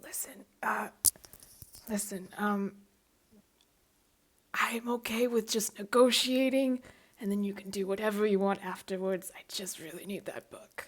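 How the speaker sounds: stage whisper, close to the ear. Role-playing, a character leans close to another's ear, whispering. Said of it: "lean over so I can whisper in your ear".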